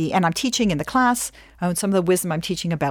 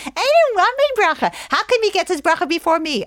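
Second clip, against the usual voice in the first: much higher, louder bratty whine; whining kids; 12 semitones higher, 5 dB louder than usual. Retold or imitated. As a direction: complain like a jealous child. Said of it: "My kids are like".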